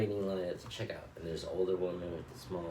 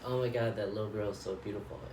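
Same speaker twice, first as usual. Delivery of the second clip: put-on higher, louder, quick gushing over the child; delighted compliment; 3 semitones higher, 4 dB louder, faster than usual. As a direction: gush warmly about the little girl. Man compliments cashier's daughter.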